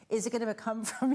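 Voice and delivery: trying not to laugh; words breaking into a giggle; stifled laugh. Real, not acted. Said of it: "you're trying not to laugh".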